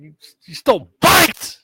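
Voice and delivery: high, loud incredulous "bikes?" with a rise; mock disbelief. Inmate mocking the kid's crime, high and incredulous. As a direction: pile on the disbelief. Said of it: "He's like".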